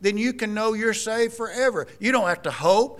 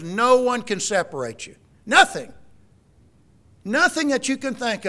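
emphatic cry; 4 semitones higher, 5 dB louder than usual. Real, not acted. Preacher stresses the promise.

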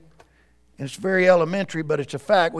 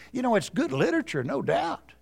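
soft, confiding tempter; whispering; 7 dB quieter than usual. Acted. Preacher as Satan praising good literature, whispering. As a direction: concede it quietly, to undermine. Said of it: "You see, he's whispering".

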